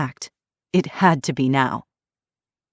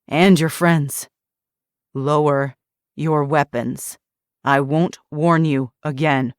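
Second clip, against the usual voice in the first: menacing threat; 5 dB louder than usual. Acted. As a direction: threaten coldly. Villain threatening standoff.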